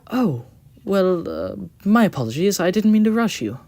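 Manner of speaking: high, loud sheepish apology; embarrassed engine. Acted. Engine apologises to his driver, high and sheepish. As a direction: back down with a flustered sorry.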